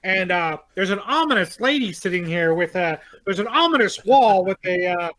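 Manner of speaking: put-on grand old ballroom announcer; old-timey announcer. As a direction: announce each ominous thing like an old newsreel. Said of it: "My, my old-timey announcer".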